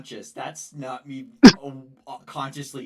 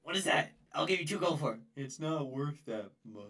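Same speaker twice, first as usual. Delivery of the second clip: lightly raised, haggling merchant voice; haggling in a higher character voice; Morgan impression; 3 semitones higher, 5 dB quieter than usual. Shown as a demonstration. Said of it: "how's your Morgan impression? Let me hear".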